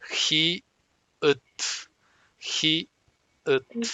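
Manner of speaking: "Ji" with a breathy H, "ut" ending on a clipped T; Korean syllable demo. Shown as a demonstration. Teacher models "Ji, ut" for students to repeat, final T. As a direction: say "Ji" airy, then "ut" stopping hard on T. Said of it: "al final de la sílaba suena como T".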